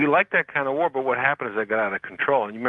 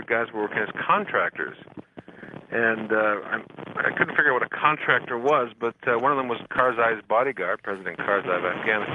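crackly bad phone line; cordless phone static. Real, not acted. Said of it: "we're getting a huge bad line from you".

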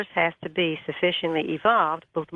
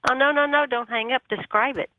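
retold urgent plea; 6 semitones higher than usual.

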